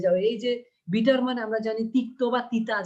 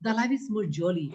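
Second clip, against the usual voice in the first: 1 slow poem reading; much slower than usual. Shown as a demonstration. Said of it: "এই জীবনটা".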